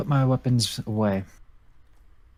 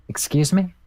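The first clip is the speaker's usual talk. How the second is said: bright, higher-pitched cheery question; upbeat and happy; 8 semitones higher than usual. Acted. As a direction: chirp it happily, lifting the pitch at the end. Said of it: "in a really upbeat voice".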